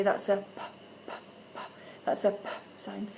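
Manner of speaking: put-on short, crisp p sound for a child. Shown as a demonstration. Teacher showing parents how to voice p, clear phonics demo. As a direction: model the p sound clearly, repeating it. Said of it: "so we're gonna say".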